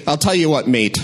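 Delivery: badly faked Australian accent; half-hearted Aussie accent, barely there. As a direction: attempt a mild Australian accent. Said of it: "this is my Australian accent".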